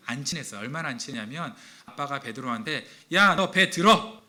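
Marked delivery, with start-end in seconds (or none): 3.1-4.2 slow, louder yelling father; higher, louder mock dad shout. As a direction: bark the order like a dad. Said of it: "이렇게 하잖아요".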